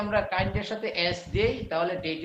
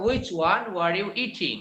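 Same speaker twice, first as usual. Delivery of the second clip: slow model reading; much slower than usual. Shown as a demonstration. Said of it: "এখন আর কেউ বলেন না".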